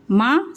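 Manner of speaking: माँ with a wide-open "aa"; open-mouthed vowel. Shown as a demonstration. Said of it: "पूरा mouth open करके". (माँ में मुँह पूरा खोलकर आ)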